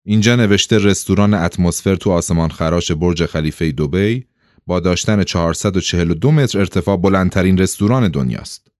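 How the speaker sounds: even, recited newspaper item; matter-of-fact read-out; reading aloud. A narrator's reading. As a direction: read the article out steadily. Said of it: "اوه با صدای بلند خواند".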